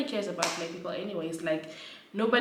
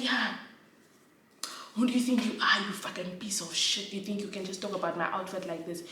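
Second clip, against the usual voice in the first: heated, rising rant at a stranger; retold angry tirade. Woman on the train telling off the man who judged her outfit, building rant.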